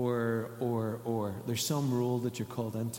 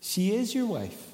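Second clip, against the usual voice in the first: Holy Spirit speaking; 8 semitones higher than usual. Retold or imitated. Holy Spirit telling pastor she is his wife, emphatic. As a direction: declare it with certainty. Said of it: "I heard the Holy Spirit say".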